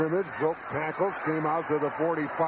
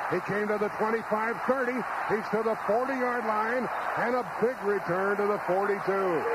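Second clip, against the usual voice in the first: excited; 6 semitones higher than usual. Real, not acted. Long punt return play-by-play.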